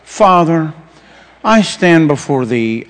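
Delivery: mock-solemn, slow formal praying; low, drawn-out holy-man parody; pompous prayer voice. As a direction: intone it like a stiffly reverent churchman. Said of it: "them fellas are like".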